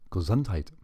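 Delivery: hammed-up German accent, punched on the middle syllable; cartoonish German accent. Shown as a demonstration. Quoting what Germans say after a sneeze, cartoonish German accent. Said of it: "cartoonish German accent".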